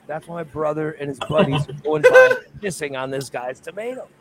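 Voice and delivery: laughing through the words; laughing realization. Real, not acted. Telling friends the punchline while laughing at it. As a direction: crack up as it dawns on you.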